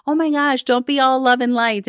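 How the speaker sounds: high, mocking inner critic voice. Her inner critic scolding her positivity, high and mocking. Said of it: "the inner critic over here".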